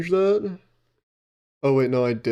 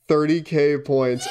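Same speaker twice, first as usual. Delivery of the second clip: anguished cry. Real, not acted. Cry-shout at cost.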